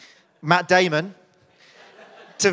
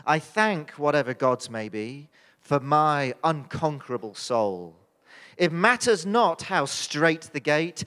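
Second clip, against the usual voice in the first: poem reading. Acted.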